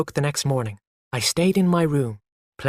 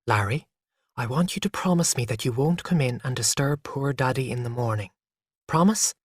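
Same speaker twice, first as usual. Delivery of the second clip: gently. Acted. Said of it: "she said gently".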